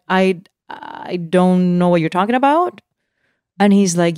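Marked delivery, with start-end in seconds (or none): 0.1-2.8 slow, halting disbelief, rising at the end; mildly stunned, questioning; retold shock. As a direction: stammer it slowly, taken aback. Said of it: "uh, so shocked".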